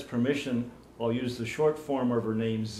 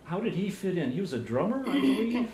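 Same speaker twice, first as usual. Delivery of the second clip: repeating to be heard; 9 semitones higher than usual. Real, not acted. Interviewer repeating for a guest who didn't hear, raised voice. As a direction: say it up and out for a listener who missed it. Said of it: "What's that?".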